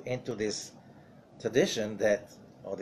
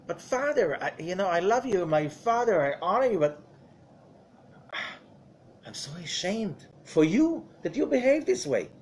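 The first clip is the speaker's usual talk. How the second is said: a higher, sighing plea to a cursing father; ashamed pleading son; 5 semitones higher than usual. Retold or imitated. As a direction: plead with a father, torn between love and shame. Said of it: "It's like, you know".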